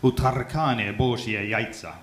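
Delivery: slow, careful Russian phrase; Russian line. Shown as a demonstration. Comic says his one Russian line, slowly. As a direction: say "utarkane boshie яйца" slowly in Russian. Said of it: "I learnt one line in Russian".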